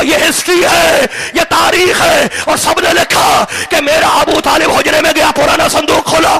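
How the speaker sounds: full-force preaching. Acted. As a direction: thunder the point at the crowd.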